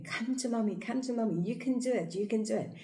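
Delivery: high coaxing mom voice; encouraging mother. Retold or imitated. Mother encouraging her toddler to walk, high and coaxing. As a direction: coax the toddler toward you.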